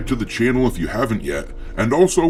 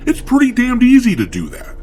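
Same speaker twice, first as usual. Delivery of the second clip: scornful outburst; 11 semitones higher, 5 dB louder than usual. Real, not acted. Scornful rant about easy job.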